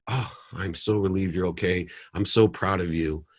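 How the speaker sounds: gentle, quiet relief; soft relieved father. Retold or imitated. Father calmly reassuring his daughter on the phone, soft and relieved. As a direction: hush it, full of relief. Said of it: "And I call calmly".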